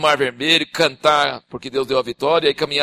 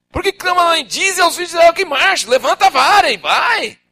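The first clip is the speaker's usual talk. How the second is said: voice of God; 12 semitones higher, 6 dB louder than usual. Acted. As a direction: boom it as God asking why. God's words read.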